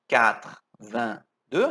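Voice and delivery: Quatre-vingt-deux said slowly, all run together, katrevendeu; linked slow. Shown as a demonstration. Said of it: "A gente vai juntar".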